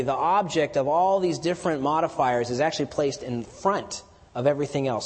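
ordinary talk

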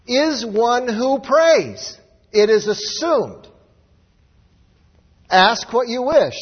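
loud, fervent sermon delivery; preaching. Acted. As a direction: preach it out to the congregation. Preaches at full force.

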